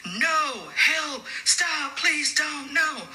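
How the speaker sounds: high mock scream of terror, not full volume; retold panicked scream. Patient waking to see the nurse, imitated high panicked cries. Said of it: "starts screaming to the top of her lungs".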